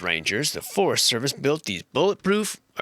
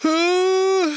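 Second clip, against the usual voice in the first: a sudden, much higher and louder "Huh?"; startled figure; 4 dB louder than usual. Retold or imitated. Voicing the terrified cabin, a high startled yelp. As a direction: squeak out a scared figure's surprised "Huh?". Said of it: "He's like".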